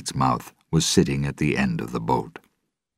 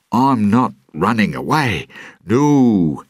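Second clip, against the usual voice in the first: raised, high protest; loud denial; 7 semitones higher, 5 dB louder than usual. Acted. Caught fleeing, Jack denies it to a large man, loud protest. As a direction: protest loudly, pitch up.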